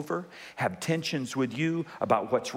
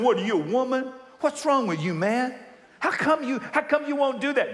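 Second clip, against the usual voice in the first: mocking peers; 7 semitones higher than usual.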